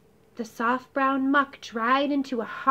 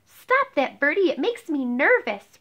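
fussy complaint; complaining, snapping first; 3 semitones higher, 4 dB louder than usual. Acted. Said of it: "Ribbon complained".

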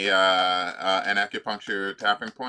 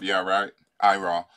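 sarcastic aside; 3 semitones lower than usual. Pretend. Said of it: "If you go".

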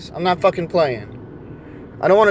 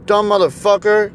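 ordinary talk

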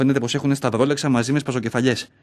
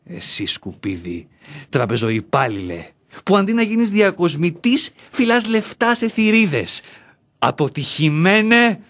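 scornful inner voice; 3 semitones higher than usual. Acted. Inner self insults him.

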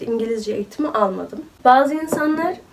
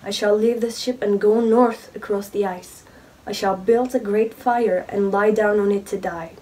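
English reading demo. Shown as a demonstration. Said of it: "Normal konuşmam da bu şekilde".

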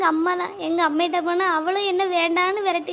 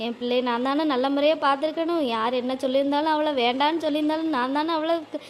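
tearful lament; 3 semitones lower than usual. Acted. A mother laments her daughter's suicide attempt to Meenamma, tearful and low. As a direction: mourn as if crying over your child. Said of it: "அழுது கிடந்தீங்கன்னா".

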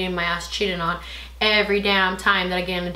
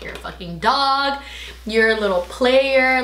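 slow angry telling-off; 3 semitones higher, slower than usual. Retold or imitated. Going off on him by text.

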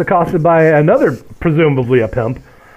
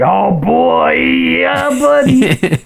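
high, drawn-out delighted whoop of words; mock-excited guy liking what he sees; lecherous delight; 8 semitones higher, much slower than usual. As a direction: stretch it out with rising glee. Acted excited reaction of film character.

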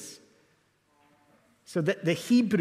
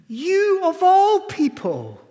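"You of all people" much higher, louder and slow; stress on You; 12 semitones higher, 7 dB louder, slower than usual. Shown as a demonstration. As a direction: hit "You" hard and high, then slow down. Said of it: "do you see what Jesus is saying".

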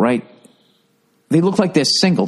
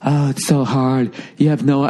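whiny parent mock. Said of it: "isn't that enough".

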